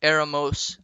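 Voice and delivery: Eramos stressed on the first e, EH-ra-mos; accent on the e. Shown as a demonstration. Teacher conjugating ser for the class, stressed e. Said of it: "accent on the E".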